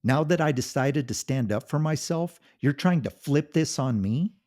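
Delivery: loud, high furious yelling; a husband shouting down his wife's denials. Acted. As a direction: unload every grievance at full volume. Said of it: "He shouted".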